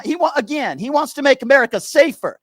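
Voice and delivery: Steven caller voice. Acted. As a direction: sneer every again like a talking-point parrot. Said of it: "I'm gonna be Steven".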